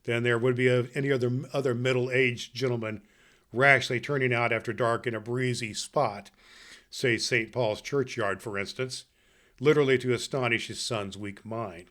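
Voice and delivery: measured storyteller reading a classic tale aloud; story narration. Acted. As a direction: read it like a fireside Christmas story for children. Reads Dickens aloud to children.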